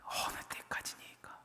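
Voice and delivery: very soft, breathed-out plea; hushed lamenting whisper. Acted. Psalmist's lament after the enemy's taunts.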